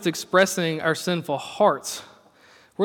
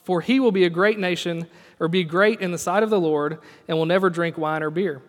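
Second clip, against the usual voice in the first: measured, even Bible reading; solemn scripture reading from the pulpit. Acted. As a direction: read the verses out steadily. Reads scripture aloud.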